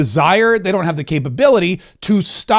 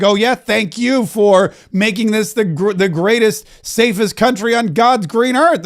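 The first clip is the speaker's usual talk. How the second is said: mocking Kash Patel; 3 semitones higher than usual. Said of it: "Kash Patel's like".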